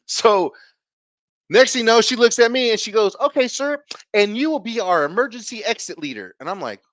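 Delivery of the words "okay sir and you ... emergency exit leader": mock principal voice.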